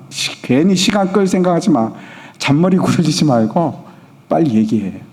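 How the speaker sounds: lightly voiced stubborn king, brushing them off; a hint of an impatient ruler giving orders; unyielding king. King refuses to back down before advisers, lightly stern. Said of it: "전혀 뭐 물러설 기-, 기세가 없이".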